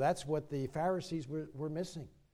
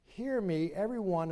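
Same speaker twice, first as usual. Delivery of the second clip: raised, higher summons to a crowd; calling out; 4 semitones higher, 5 dB louder than usual. Retold or imitated. Preacher voicing Jesus summoning the multitude, calling out. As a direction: call the crowd to attention.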